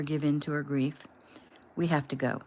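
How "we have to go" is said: firm. Acted. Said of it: "he said firmly".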